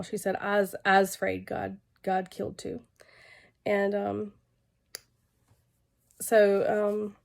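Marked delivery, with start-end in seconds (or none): 0.4-2.8 slow, lightly voiced Southern little girl; a hint of a scared little Southern girl's drawl; slow Southern child's drawl, gently imitated. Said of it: "in her little southern drawl".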